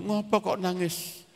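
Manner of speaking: lightly acted confusion; puzzled father. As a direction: ask slowly, at a mild loss. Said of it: "Bapaknya tambah bingung".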